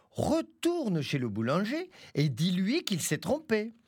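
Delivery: chèvre amusée, voix plus aiguë; voix de la chèvre moqueuse. Acted. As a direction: se moquer du loup-crapaud depuis la fenêtre. (chèvre railleuse à voix aiguë)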